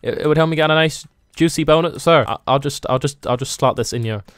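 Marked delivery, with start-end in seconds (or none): 2.3-4.2 fading to a hush; sneaky whisper-quiet. Pretend. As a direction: slip it in quietly, getting softer. Sneaking item into customer bag.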